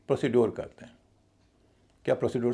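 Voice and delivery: प्रोसीड्योर with full "pro" and "dyor"; spelled-out o and d in प्रोसीड्योर; common mispronunciation. Shown as a demonstration. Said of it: "कई लोग".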